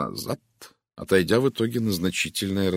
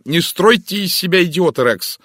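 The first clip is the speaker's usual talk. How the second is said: higher, louder angry snap; sharp cutting-off; 11 semitones higher, 10 dB louder than usual. A narrator's reading. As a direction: cut him off hard. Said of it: "оборвала она его".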